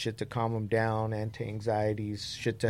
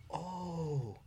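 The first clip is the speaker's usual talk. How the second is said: blissed-out mom; 5 semitones higher, 11 dB quieter, much slower than usual. Retold or imitated. Mom quoted feeling the gummy.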